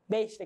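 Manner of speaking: Besta with a hissing carioca chiado on the S; drawn-out S. Shown as a demonstration. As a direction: pull the S of Besta into a sh. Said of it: "aquela coisa bem puxada".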